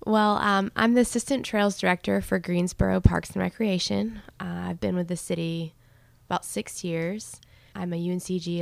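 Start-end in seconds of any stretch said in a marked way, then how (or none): 0.1-6.8 speaking right into the handed mic; mic handed over. Real, not acted. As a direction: voice suddenly close to the mic. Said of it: "I'll pass the mic over to her".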